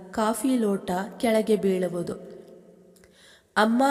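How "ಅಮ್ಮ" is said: a startled cry of fear for mother; panicked cry. Acted. Son sees the crash news, cries out in panic. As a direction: cry out for mother in sudden fright. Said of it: "ಎಂದು ಗಾಬರಿಯಲ್ಲಿ ಕೂಗಿದವನ".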